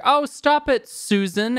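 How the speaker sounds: high, sharp mock scold; a hint of an exasperated granny; lightly voiced nagging grandma; scolding grandmother. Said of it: "the grandmother is like".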